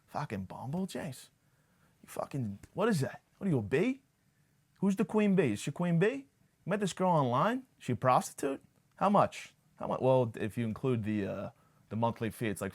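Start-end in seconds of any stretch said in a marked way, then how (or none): 0.1-10.0 much higher, bewildered dad voice firing questions; imitating dad. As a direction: play the outraged father who can't grasp dating apps. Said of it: "It's the perfect spot-on impression".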